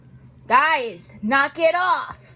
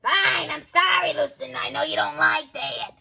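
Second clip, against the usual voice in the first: put-on gruff old neighbor shouting; old lady voice.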